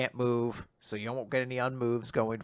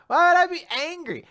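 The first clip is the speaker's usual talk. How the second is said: mock huffy; 7 dB louder than usual. Fuko voiced, huffy.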